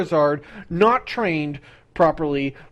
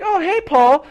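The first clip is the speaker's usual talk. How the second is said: Ash voice; 7 semitones higher than usual. Retold or imitated. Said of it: "he's like".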